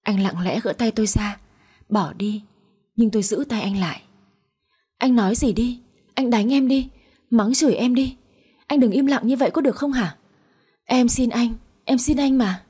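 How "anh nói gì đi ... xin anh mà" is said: slightly raised, imploring wife's voice; understated desperate begging; tearful pleading. Acted. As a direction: beg him with a touch of tears. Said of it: "Tôi quỳ mọp dưới chân anh mà khóc, nài nỉ".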